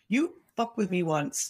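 slow, deliberate threat; menacing warning. Shown as a demonstration. Slow menacing warning to anyone who crosses him. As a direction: drop the friendliness and warn them slowly.

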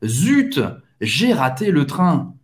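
"Zut" pushed out, then falling away; mildly annoyed at a missed train; frustrated. Shown as a demonstration. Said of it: "expressar uma frustração". (leve frustração)

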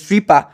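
"Je suis pas" with "je suis" blended into "chui"; clipped spoken "Je suis pas"; je suis slurred. Shown as a demonstration. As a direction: run "je suis" together into one sound. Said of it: "suena suis".

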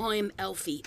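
put-on British actor voice; hammy attempt at the famous actor; Michael Caine. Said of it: "Be like".

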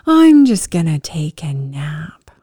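low, slow, drawn-out mild weariness; a touch of drowsy surrender; worn out. Retold or imitated. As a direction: retell giving in to tiredness, slowly. Exhausted, giving up in story.

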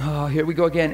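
low, resigned mock sigh; acted weary dismay; heart-sinking sigh. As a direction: sigh it out, here it comes. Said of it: "the heart goes".

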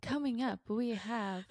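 a hint of anchor teasing the next segment; playful mock news-anchor intro. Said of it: "you would be a great news anchor".

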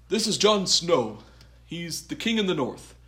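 lightly voiced deadpan introduction; Davos impression. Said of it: "just a great line delivery from Liam Cunningham".

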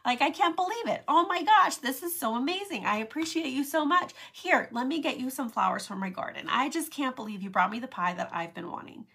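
high, loud, overjoyed gushing; gushing excitement. Retold or imitated. Friend receiving a pie, gushing with loud joy. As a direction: burst with delight over the pie. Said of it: "They're like".

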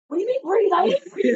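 high-pitched retold freak-out at a watch; squeaked-up comic panic; mock panic. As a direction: act out alarmed disbelief, voice shooting up. Retells panicking at watch alert.

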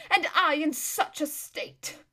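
slow, high pitiful whine; milk the misery on each word; self-pitying. Acted. Lazareline complaining of her shaken state, slow self-pitying whine.

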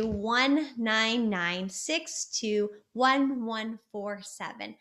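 drawn-out digits fading at the end; slow number recital. Shown as a demonstration. Coach repeating the number for viewers, slow and fading. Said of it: "say it out loud, play with it".

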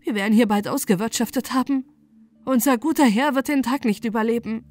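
loud, tearful lament; tragic heroine sorrow. Acted. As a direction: wail it through tears. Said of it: "schluchzte sie".

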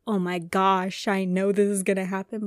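panicky anxious knowing. Retold or imitated. Explaining anxiety to listeners, mock panicked and loud. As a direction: sound caught in a rush of anxiety. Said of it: "Not like a".

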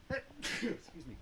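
sneezing, then apologising quietly. Real, not acted. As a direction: sneeze then a soft excuse me. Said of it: "I have to sneeze".

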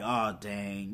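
low, deflated reaction; hushed, resigned mock worry; mock dismay. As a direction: imitate a sinking realization, soft and low. Retelling Bucky's dismayed reaction.

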